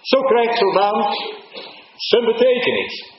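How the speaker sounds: high, loud and slow, drawn out; fervent preaching. Acted. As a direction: proclaim each word to the whole church. Preacher at full force. (hoog, luid en langzaam preken)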